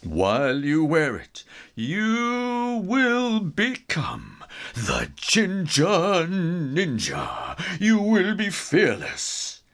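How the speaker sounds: lightly voiced mystic, slow and grand; a hint of a grand wizard; magic mentor voice. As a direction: intone it like a wise old sage.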